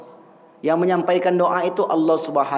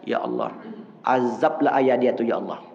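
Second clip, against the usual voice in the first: mock curse prayer; 6 semitones lower than usual. Preacher imitates a skeptic cursing a father, low. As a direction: mutter the curse low under the breath. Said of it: "Dibalik doanya".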